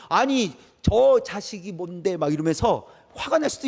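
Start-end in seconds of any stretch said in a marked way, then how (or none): 0.1-2.1 slow, mock-indignant outburst; acted indignation. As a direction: lean hard on the first word, as an offended king. Acts out angry King Saul. (분한 왕을 흉내 낸 느린 말투)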